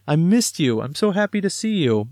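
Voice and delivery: dad imitating son thrilled he returned; thrilled child. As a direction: imitate your son glad you're back. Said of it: "he's, like, thrilled to see me".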